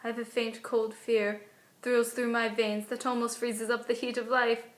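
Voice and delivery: stage Juliet with understated dread; worried and scared. Acted. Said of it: "scared kind of mixture".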